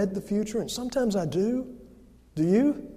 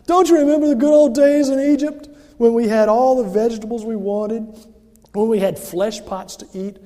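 loud, higher complaining wail; whining Israelites; 4 semitones higher, 8 dB louder than usual. Retold or imitated. Israelites in the wilderness complaining to Moses, loud whining. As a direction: moan like doomed grumblers. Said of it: "they say".

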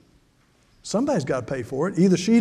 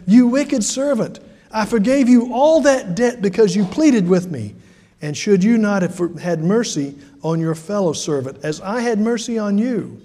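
stern rebuke; 3 semitones higher than usual. Acted. Master rebuking the servant who wouldn't forgive, stern and raised. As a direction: condemn him for showing no mercy.

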